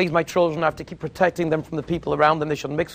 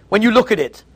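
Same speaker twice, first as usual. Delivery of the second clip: louder, higher, full disgust; disgusted preaching; 6 semitones higher, 6 dB louder than usual. Real, not acted. Preacher telling the crowd to see idols with disgust. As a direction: spit out each word as filth. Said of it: "preaching disgust at idols".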